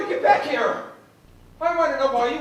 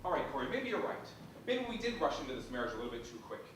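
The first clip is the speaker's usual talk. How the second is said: subdued; 10 semitones lower, 12 dB quieter, faster than usual. Acted. Husband quietly conceding in quarrel.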